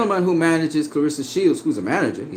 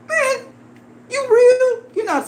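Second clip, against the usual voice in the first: incredulous; slower than usual. Real, not acted. Disbelief at the critic's claim.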